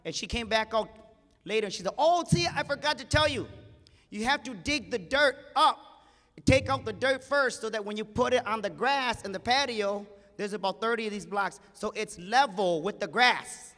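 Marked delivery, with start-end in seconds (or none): 2.0-13.7 lifted, sweet bossy lady voice, much higher; bright lady voice. Retold or imitated. Rich lady telling the gardener to dig first, high and sweet. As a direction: play the rich lady giving orders up high.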